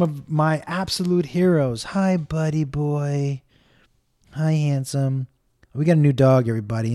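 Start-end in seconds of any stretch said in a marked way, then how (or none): 1.8-5.3 sweet dog greeting. Real, not acted. Greeting his new dog Indiana Jones, slow and tender. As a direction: coo at the dog.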